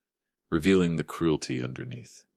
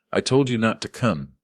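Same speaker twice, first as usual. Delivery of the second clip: hissed; 6 semitones higher, 4 dB louder than usual. A narrator's reading. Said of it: "she hissed".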